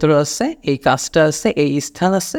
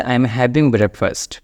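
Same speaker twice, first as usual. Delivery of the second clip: slow model sentence; 2 semitones lower, much slower than usual. Shown as a demonstration. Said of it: "advance ইংলিশে আপনি এইটা বলতে পারেন".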